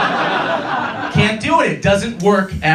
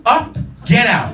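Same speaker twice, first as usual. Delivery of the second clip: loud, slow dismissal; mock shouting host; 4 semitones higher, 4 dB louder, slower than usual. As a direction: yell him out of the bar. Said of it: "Matt, what did you say?".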